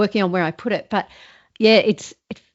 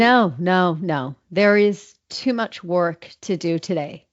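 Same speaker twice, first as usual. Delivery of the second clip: American accent, placement in the middle of the mouth; slower than usual. Shown as a demonstration. American accent scene read for the coach, pitch lowered. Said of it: "Is that better?".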